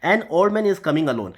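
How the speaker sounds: slow, careful example sentence; slow example read. Shown as a demonstration. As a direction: read the example slowly and clearly. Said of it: "जैसे example देख लेते हैं".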